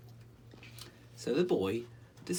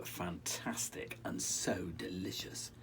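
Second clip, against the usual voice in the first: whispered; 4 semitones lower, 6 dB quieter, slower than usual. A narrator's reading. Savouring sweets in storytelling.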